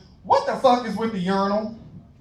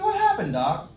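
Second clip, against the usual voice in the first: dazed question. Retold or imitated. Drugged self asks doctor.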